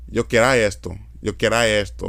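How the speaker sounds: Cibaeño Spanish demonstration; Cibao Dominican accent. Shown as a demonstration. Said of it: "instead of saying R, they say I".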